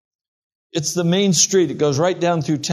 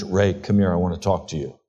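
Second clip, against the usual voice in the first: stern dad; 7 semitones lower, faster than usual. Retold or imitated. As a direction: call the boy in like a dad ready to rebuke. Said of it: "like I used to hear from my dad".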